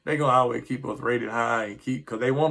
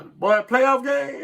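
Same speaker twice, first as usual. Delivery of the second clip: exasperated outburst; 13 semitones higher, 6 dB louder, slower than usual. Real, not acted. Fan venting frustration.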